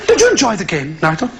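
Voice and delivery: put-on affected English father addressing his boy; preacher father. Preacher father questioning his son, affected paternal tone. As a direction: play the patronising radio-preacher dad. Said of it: "I said to my son".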